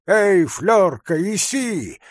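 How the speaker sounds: high, loud summons; calling the dog. A narrator's reading. Hunter calls his dog to come, shouting. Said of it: "крикнул он собаке".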